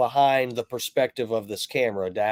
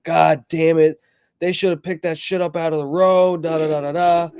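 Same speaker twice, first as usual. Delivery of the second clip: going off; 2 semitones higher than usual. Retold or imitated. Driver who hit them venting about the branch, mild mock rant. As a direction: mimic the driver venting, mildly heated. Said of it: "just going off".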